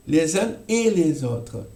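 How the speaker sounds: "les uns et les autres" with z liaison; French liaison. Shown as a demonstration. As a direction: link lez-uns, lez-autres. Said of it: "hacemos les uns". ("les uns et les autres" con enlace)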